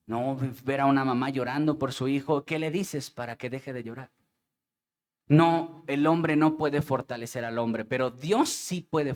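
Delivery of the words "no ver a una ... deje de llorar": voz baja y pausada por el luto; tristeza real. Real, not acted. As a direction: cuenta con pesar la muerte del primo. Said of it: "es triste". (con tristeza contenida, más bajo y despacio)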